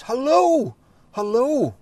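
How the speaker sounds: high, loud excited greeting; joyful shout. Pretend. Neighbour flings open door to greet believer, shouting happily. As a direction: call out across the street in delight. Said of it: "somebody shouts".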